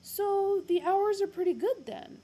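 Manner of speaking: high, loud chatty resumption; resume cheerily; Ford's voice. Acted. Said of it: "he resumed".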